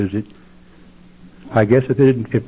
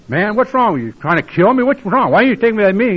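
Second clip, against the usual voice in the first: raised, higher indignant retelling; retold angry outburst; 10 semitones higher than usual. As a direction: replay the anger at your sponsor, pitched up. Angry phone call to sponsor.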